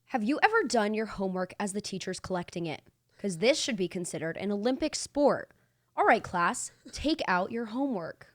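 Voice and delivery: steady, even newscaster read; news reporter voice. Shown as a demonstration. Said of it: "story time blurb in a news reporter voice".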